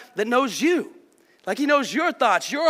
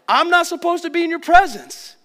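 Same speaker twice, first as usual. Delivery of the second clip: awed fear; 6 semitones higher, 6 dB louder than usual. Retold or imitated. Voicing awe before God's presence.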